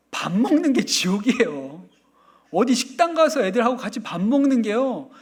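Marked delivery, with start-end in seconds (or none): none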